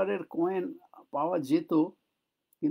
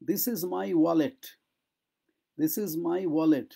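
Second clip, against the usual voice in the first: each word laid out slowly for learners; slow classroom model sentence; slow model phrase; much slower than usual. Shown as a demonstration. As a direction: say it slowly so students can copy. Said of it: "model sentence repeated slowly".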